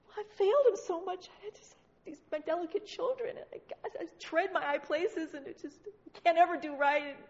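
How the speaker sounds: hammed-up pitiful excuse-making; self-pitying. Believer answering God about failures, mock self-pitying.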